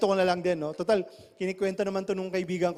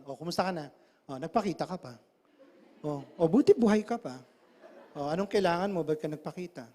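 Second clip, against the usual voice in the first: cold; 3 semitones lower than usual. Shown as a demonstration. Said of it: "Tanggalin mo compassion, iba dating nun".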